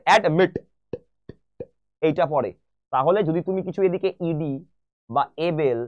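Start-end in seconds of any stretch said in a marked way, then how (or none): 0.1-0.5 অ্যাডমিট with the stress on the final মিট; teacher demonstrating end-stressed অ্যাডমিট; stress on last syllable. Shown as a demonstration. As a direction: split অ্যাডমিট in two and press on মিট. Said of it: "লাস্টের সিলেবলে গিয়ে এই চাপটা পড়ে".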